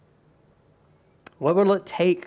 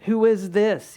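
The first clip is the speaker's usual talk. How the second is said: awed disciples; 6 semitones higher, 3 dB louder than usual. Retold or imitated. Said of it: "In four forty-one".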